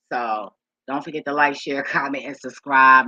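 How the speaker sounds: "so don't forget to like" whispered, no voice; whispered outro. Shown as a demonstration. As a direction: breathe the sign-off line.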